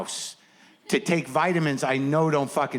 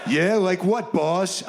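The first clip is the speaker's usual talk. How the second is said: higher eager henchman; eager sidekick; 4 semitones higher, much slower than usual. Retold or imitated. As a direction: dim sidekick asking the boss. Sidekick hustler asking boss.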